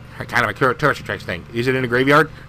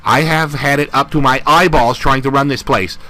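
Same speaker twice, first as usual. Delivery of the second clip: gruff army captain. Acted. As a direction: boss the recruits around like a captain. Voices the captain again.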